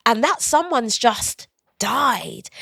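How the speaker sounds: slow, gentle, steady reminder; gentle firm. Retold or imitated. Host family gently telling the au pair to go home, slow. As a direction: say it slowly, like breaking it kindly. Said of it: "They're like".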